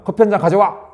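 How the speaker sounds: demanding coffee, lightly acted; bossy command. Shown as a demonstration. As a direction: order your spouse around. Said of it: "이거하고 차이가 얼마나 많아요".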